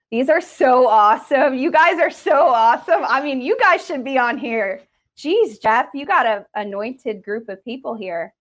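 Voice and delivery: loud, high, thrilled praise; excited. Real, not acted. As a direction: gush over them with delight. Thrilled by the responses.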